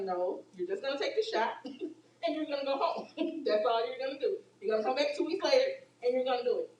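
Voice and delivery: chuckling, easy reassurance; calm them down with a laugh. Retold or imitated. Nurse reassuring a scared patient about the shot, amused.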